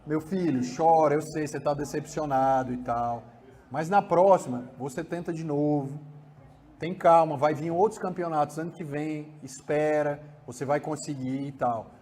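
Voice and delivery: father holding his disappointed son in a calm voice; supportive father. Shown as a demonstration. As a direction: comfort the child, steady and kind. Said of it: "essa voz é de suporte".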